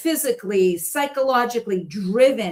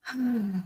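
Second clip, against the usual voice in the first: contented sigh; 8 dB quieter than usual. Shown as a demonstration. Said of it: "a big sigh".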